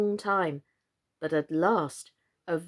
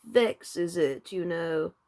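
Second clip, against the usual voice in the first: muttering frog; 3 semitones lower, much slower than usual. Acted. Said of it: "the frog muttered".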